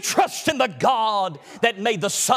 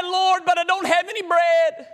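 higher, pleading plea to God; higher, pleading believer; 5 semitones higher than usual. Acted. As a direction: beg the Lord in a higher voice. Anointed pleads with the Lord.

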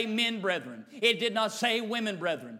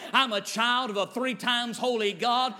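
bold declaration. Acted. Declaration against devil, building.

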